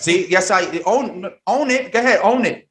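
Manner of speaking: cheering the first Latina AD to own it; hype cheer. Real, not acted. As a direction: egg her on, pitch climbing. Host cheers guest on.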